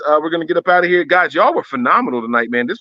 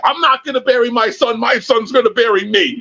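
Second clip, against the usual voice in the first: Denzel monotone; 10 semitones higher than usual. Retold or imitated. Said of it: "It's kind of monotone almost ... there's no passion".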